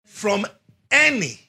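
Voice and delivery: preacher raising the voice on any; loud emphasis. Shown as a demonstration. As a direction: call it out to the church. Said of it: "let's say it loud".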